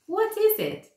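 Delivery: put-on very high, eager little-girl question; curious child. Cherry asking the dentist about the bottle, curious. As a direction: squeak it like a small curious girl.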